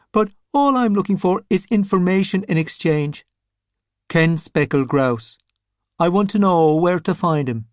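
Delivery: a rotting boss puts on airs; pompous zombie. Scapegrace states his price.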